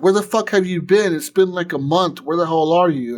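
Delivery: imitating an upset friend yelling; mock angry friend. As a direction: scold a friend who vanished for a month. Panam scolding after a month.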